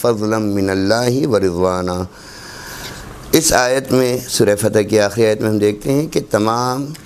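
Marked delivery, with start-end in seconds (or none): 0.0-2.0 slow, measured Arabic recitation with held vowels; Quranic recitation. Acted. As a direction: recite the verse slowly, drawing out long syllables.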